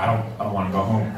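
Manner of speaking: put-on rushed, low kid muttering; fast whiny plea. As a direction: rush it out, dreading. Kid pleading not to go.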